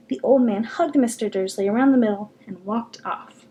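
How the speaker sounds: steady audiobook reading voice; story narration. A narrator's reading. Reads a novel aloud.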